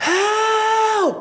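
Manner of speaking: put-on distressed cry.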